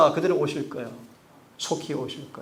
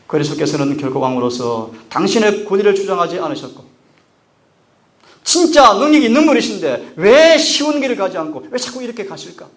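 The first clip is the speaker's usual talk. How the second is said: louder, higher impassioned sermon; full-force preaching; 6 semitones higher, 12 dB louder than usual. Real, not acted. Preacher to congregation, loud impassioned preaching. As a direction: drive the question home.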